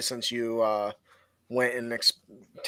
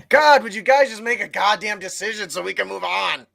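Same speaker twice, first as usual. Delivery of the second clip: exasperated; 5 semitones higher, 5 dB louder than usual. Pretend. DM exasperated at indecisive players.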